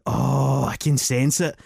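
a hint of a spooky fortune-teller; mock medium. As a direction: mimic a solemn séance medium. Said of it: "the guy's going".

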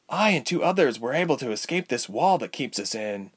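put-on lifted girlish voice; earnest young Ilse. A narrator's reading. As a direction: explain earnestly as a young patient.

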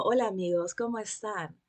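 a touch of low podcast-host voice. Retold or imitated. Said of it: "en el podcast es como".

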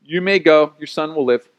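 offhand, matter-of-fact send-off; mildly brusque brush-off; dismissive. Retold or imitated. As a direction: dismiss them with little feeling. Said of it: "that's rather dismissive".

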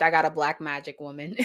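quick read, laughing through it; can't keep a straight face reading it; giggling while quoting his caption; reading through laughter. Retold or imitated. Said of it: "He typed".

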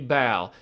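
"Bal" said with a voiced B where pal belongs. Mimicking the president's slip, "Bal" with a B. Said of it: "He says Bal".

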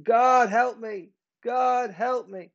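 drawn-out pleading to God; acted cry for help. Believer crying out to God daily, acted plea. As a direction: plead slowly, as in a daily prayer. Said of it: "you could cry out to God daily".

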